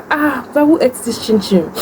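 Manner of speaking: high, startled auntie demanding answers; surprised aunt voice. Retold or imitated. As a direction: voice the shocked aunt, pitched high. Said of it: "She was like".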